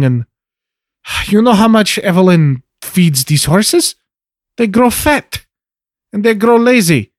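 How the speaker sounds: lightly voiced daughter, pitch jumping up on excuses; daughter making excuses. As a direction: protest to your father, lightly in character. Plays Trinity explaining herself to father.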